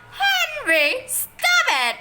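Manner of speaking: high, loud commanding shout. A narrator's reading. Mother shouting at her attacking son. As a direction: shout them apart. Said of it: "shouted Mom".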